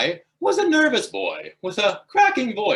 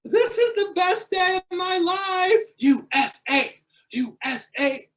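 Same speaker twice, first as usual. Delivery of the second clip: excited; 12 semitones higher than usual. Real, not acted. Boy cheering after the girl said date, triumphant. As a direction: celebrate like you just won. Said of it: "celebrating the date".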